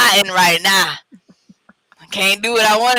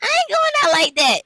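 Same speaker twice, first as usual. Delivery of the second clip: mock tough refusal; 10 semitones higher than usual. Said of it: "She like".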